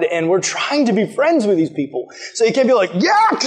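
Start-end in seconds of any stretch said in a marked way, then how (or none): 2.9-3.4 high, hammed-up squeal of disgust; mock disgust. Guest rudely refusing the wife's food, mock disgust. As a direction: exaggerate your revulsion, pitched way up.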